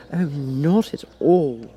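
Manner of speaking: put-on slow, girlish voice; a young girl answering frankly; Alice voice. Alice answers the Cat, slow girlish voice.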